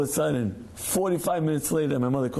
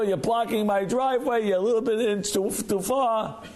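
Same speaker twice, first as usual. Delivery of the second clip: mildly indignant, higher-pitched griping; territorial complaint; 3 semitones higher than usual. Acted. Homeowner complains to neighbor about a blocked driveway, mildly indignant. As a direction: gripe in mock annoyance at a neighbor.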